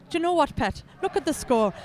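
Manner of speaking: a light mock Geordie accent that slips toward Scottish; half-hearted Geordie accent with a Scottish slide; bad Newcastle accent. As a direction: play at a Newcastle local, badly, drifting into Scottish. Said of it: "a really bad Newcastle accent that went a little bit Scottish".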